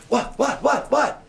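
high, loud, jumpy burst; startled reaction. Acted. Blind man suddenly touched by strangers, startled. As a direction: repeat it as if jolted by a touch. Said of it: "how would you react to that?".

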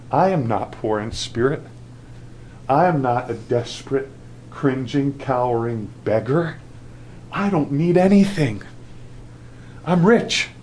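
mock the church's boasting; a preacher voicing the church's smugness; smug boast. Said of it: "see what their attitude was?".

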